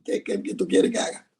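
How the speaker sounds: whispered, eager to please; whispered reply. Retold or imitated. Husband answering his wife's sweet call, whispered. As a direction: breathe it out, unvoiced and compliant.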